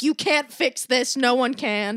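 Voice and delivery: loud slow firm refusal; firm insistence. Retold or imitated. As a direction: shut them down for good. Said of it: "I'm like".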